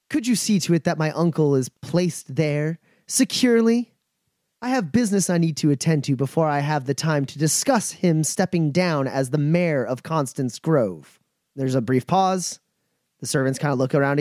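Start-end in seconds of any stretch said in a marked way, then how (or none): 0.1-11.2 cold command. Acted. GM voices Eliza commanding.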